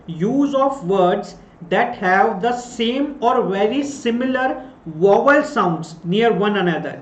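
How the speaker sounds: very slow, word by word dictation of a definition; measured classroom dictation, each phrase set apart. Shown as a demonstration. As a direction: spell it out slowly so students can write it down.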